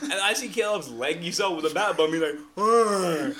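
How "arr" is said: mock villager grunt; a short nasal villager hmm; lightly voiced game villager; Minecraft villager. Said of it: "Sounded like a little Minecraft villager".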